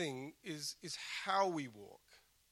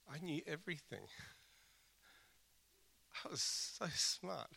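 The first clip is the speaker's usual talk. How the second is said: sarcastic; 4 dB quieter than usual. Pretend. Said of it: "Some of you are realizing that I'm being sarcastic".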